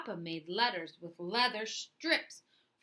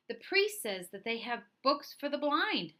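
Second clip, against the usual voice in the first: excited; 5 semitones higher than usual. Acted. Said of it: "I told Papa excitedly".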